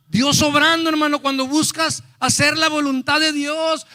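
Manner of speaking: high, loud, driving proclamation; preaching at full force. Real, not acted. Preacher exhorts brothers to seek God's will, full-force preaching. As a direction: belt it out to the congregation.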